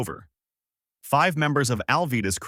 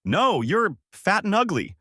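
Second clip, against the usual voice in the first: defiant yell; 10 semitones higher than usual. A narrator's reading. Koby defying his captain Alvida, defiant high yell. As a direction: yell it high, standing up to a bully. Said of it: "Koby then yells out".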